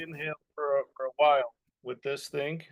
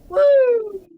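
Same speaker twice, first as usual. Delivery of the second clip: high, loud head voice whoop; 16 dB louder than usual. Shown as a demonstration. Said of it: "build a strong head voice".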